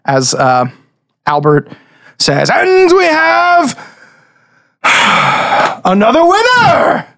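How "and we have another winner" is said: high, slow, drawn-out bored announcer voice. Acted. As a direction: announce the winner like you couldn't care less. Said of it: "Sounds bored".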